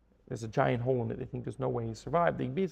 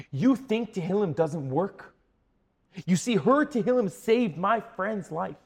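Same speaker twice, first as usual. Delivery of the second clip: slow, loud, higher-pitched emphatic declaration; impassioned proclamation; 5 semitones higher, 7 dB louder, slower than usual. Retold or imitated. Friend to two doubters after the story, impassioned proclamation. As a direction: drive each word home with fervour.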